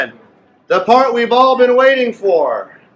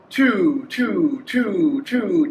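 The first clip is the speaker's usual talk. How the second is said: demo speed; 4 semitones lower, 6 dB quieter, much slower than usual. Shown as a demonstration. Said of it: "slow it down and say two this fast".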